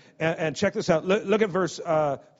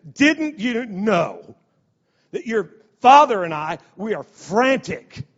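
upset mother; 3 semitones higher, 5 dB louder, slower than usual. Retold or imitated. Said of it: "She's upset".

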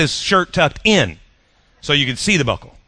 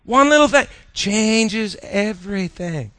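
slow repeat; 4 semitones higher, slower than usual. Acted. Repeats key line slowly.

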